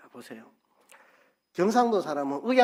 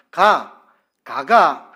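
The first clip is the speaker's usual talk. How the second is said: louder Gyeongsang intonation "가가, 가가"; 3 semitones higher, 12 dB louder, much slower than usual. Shown as a demonstration. Preacher demonstrating dialect, a loud Gyeongsang "가가". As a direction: sing the "가가" tones the Gyeongsang way. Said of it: "제가 해볼게요".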